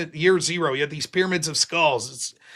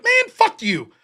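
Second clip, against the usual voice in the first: dismissive; 3 dB louder, slower than usual. Retold or imitated. Black guy dismisses John.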